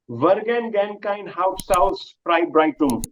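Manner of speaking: Vergangenheitsaufarbeitung run together quickly; said fast. Shown as a demonstration. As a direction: rattle off Vergangenheitsaufarbeitung at normal speed. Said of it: "If you say it fast".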